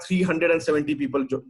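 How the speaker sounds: ordinary talk, nothing marked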